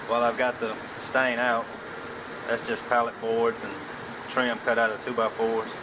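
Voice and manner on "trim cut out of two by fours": ordinary talk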